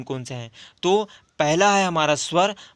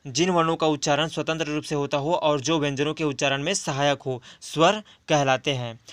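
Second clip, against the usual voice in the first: fast dictation repeat; faster than usual. Shown as a demonstration. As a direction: rattle the definition off for notes. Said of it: "क्या?".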